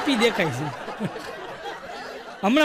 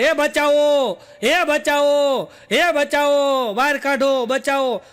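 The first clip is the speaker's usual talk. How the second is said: calling for help; 3 semitones higher, much slower than usual. Retold or imitated. Someone who fell into a roadside pit calling out, drawn-out help cry. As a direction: stretch out each call like someone stuck in a dark pit. Man fallen into pit at night.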